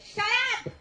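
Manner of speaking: sudden mock-angry outburst. Imitating co-star scolding laughing actors, mock angry. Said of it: "angry with us the whole time".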